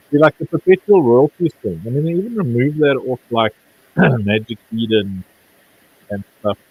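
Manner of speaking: muffled, as if through a covered mic. Real, not acted. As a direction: speak muffled, like a hand over the mouth. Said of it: "is Andrew's voice muffled for anyone else".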